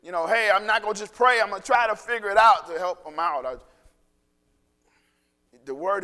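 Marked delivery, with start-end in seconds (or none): 0.0-3.5 fervent prayer. Retold or imitated. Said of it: "And I go".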